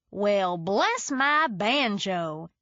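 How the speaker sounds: slow, hammed-up Southern hick drawl; exaggerated hick accent. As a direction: ham up the hillbilly twang. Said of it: "in an exaggerated hick accent".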